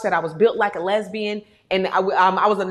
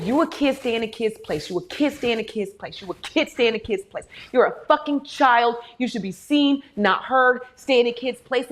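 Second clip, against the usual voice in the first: repeated parental scolding. Retold or imitated. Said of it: "So we were told".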